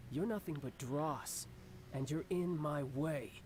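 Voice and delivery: slow, cold put-down; cold contempt. Acted. The Harbinger to the travelers in his way: slow, cold contempt. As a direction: look down on them. Villain threatens.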